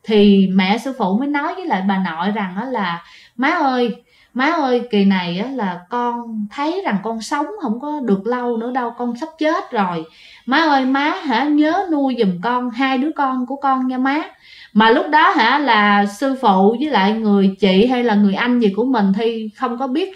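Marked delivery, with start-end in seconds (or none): 3.4-14.2 weak dying plea. Retold or imitated. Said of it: "giống như hấp hối vậy đó".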